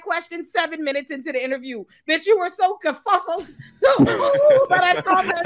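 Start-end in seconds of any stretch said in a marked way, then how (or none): 2.1-5.4 mocking laughter. Real, not acted. Mocking the flustered guest, laughing.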